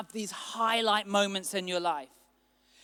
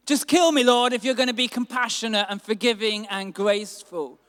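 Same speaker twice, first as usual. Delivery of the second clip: angry outburst; 5 dB louder than usual. Acted. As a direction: shout it up at God, then spit out the rest. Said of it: "he got angry".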